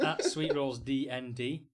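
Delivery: slow, loud hype man shout. Acted. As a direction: stretch it out like an energy drink ad. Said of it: "Are you this fucking weird hype man now?".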